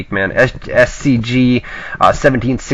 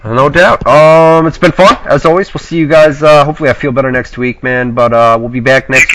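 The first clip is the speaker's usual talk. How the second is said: shaky sick voice. Real, not acted. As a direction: voice a bit shaky from illness. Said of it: "Your voice a little bit shaky".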